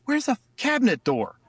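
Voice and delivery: a hint of an upset wife asking; high mock question from the wife; lightly voiced wife. Retold wife's angry question.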